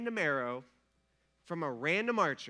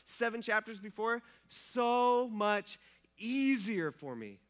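exasperated David; 4 semitones higher, 4 dB louder than usual. Retold or imitated. David imagined regretting afterwards.

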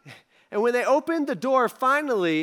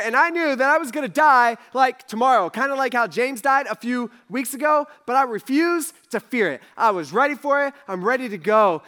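raised, forceful storytelling; excited retelling; 4 semitones higher, 5 dB louder than usual. Acted. Peter telling friends he faced death, loud and fired up. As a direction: declare your courage with rising force.

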